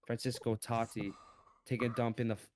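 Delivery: mock British rapper spitting bars; hammed-up London rap flow; london roadman accent. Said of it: "I'm gonna spit some bars".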